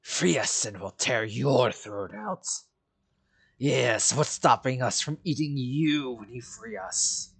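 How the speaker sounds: lightly voiced hungry wolf, drawn-out threat; a touch of beast in the voice. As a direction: speak as a menacing talking wolf. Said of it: "this voice for the wolves".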